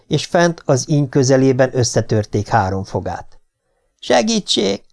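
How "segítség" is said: narrated yell for help; crying for help. A narrator's reading. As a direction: call out desperately on a raised pitch. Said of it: "ordította Hegarty".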